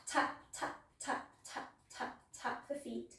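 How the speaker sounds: taps counted softly, then whispered away; fading to a whisper. Acted. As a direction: let the taps fade into a whisper. Cueing foot taps, fading away.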